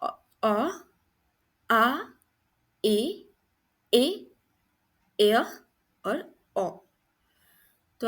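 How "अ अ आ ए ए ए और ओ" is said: isolated vowel sounds with long gaps; phonics demonstration. Shown as a demonstration. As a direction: sound out each vowel on its own. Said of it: "ए के six phonic sounds हैं".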